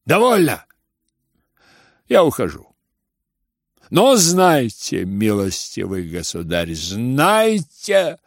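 put-on loud, indignant old general leaving; angry outburst. General to the whole room, angry. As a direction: storm off shouting at them.

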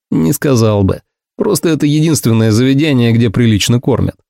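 ordinary delivery

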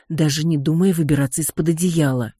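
plain reading voice

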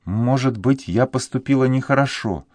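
put-on a sad young woman speaks; sad girl voice. A narrator's reading. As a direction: sigh out her guilt in a girl's voice. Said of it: "отвечала девушка с невыразимой грустью".

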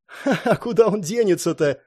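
dismissive chuckle through the words; laughing scoff. A narrator's reading. Rosemary laughs off Elmeric's doubt about Jerry. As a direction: laugh it off confidently. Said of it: "хмыкнула Розмари".

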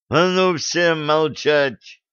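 slow, heavy angry command; furious yell. Acted. Enraged captain orders the squabbling girls to be silent, slow and forceful. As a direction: hammer each word to shut them up. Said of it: "заорал взбешённый Блад".

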